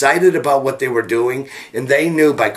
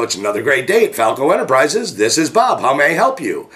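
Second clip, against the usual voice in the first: happy phone greeting; 2 semitones higher than usual. Acted. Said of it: "so much energy to answer the phone in such a happy mood".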